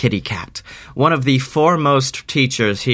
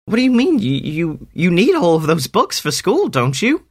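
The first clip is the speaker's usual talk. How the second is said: put-on high girl voice; 5 semitones higher than usual. Harmony puzzled, questioning.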